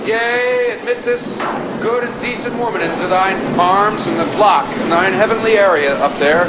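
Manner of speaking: put-on pompous old-fashioned preacher prayer; mock biblical prophet. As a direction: intone it like a grand King James prayer. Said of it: "a perfect example of how your prayer should look and sound".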